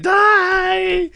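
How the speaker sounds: high, hammed-up war shout; cartoonish kill cry; mock battle cry. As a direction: yell it like an action hero striking. Guy smashing kiwi in mock battle.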